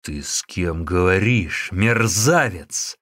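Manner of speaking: monk threatening the visitor; menacing. Acted. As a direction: lean in and threaten.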